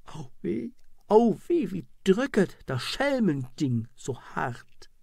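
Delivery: a cry of pain, then a curse through it; pained cursing. Acted. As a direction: wince out the pain. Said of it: "Dabei schrie und fluchte sie". (Schmerzensschrei der gefolterten Frau)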